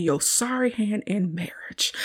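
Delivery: breathy whispered put-down; whispered retort. Retold or imitated. Celie's retort to Mister, whispered. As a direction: hush it like a secret jab.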